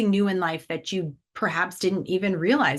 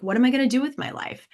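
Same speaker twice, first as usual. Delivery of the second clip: mock freaking out; 5 semitones higher, much faster than usual. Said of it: "he could be freaking out".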